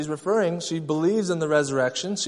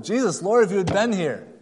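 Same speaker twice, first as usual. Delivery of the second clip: louder, higher accusing cry; yelling at Jesus; 4 semitones higher, 3 dB louder than usual. Retold or imitated. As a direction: retell her hurt yell at him, half-acted. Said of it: "At first she yells at him".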